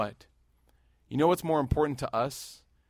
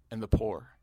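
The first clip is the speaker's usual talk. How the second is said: whispered; 2 semitones lower than usual. Real, not acted. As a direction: drop to a whisper on the poor. Emphatic close of a point.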